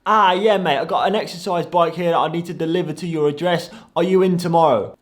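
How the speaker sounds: imitated Cockney delivery man; broad mock-Cockney London voice; Cockney accent. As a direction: mimic a Cockney caller on the phone. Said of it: "he had the most Cockney accent".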